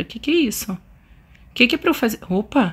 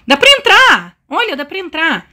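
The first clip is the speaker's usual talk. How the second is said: excited discovery; 4 semitones higher, 4 dB louder than usual. Real, not acted. Finds she can enter the cabin.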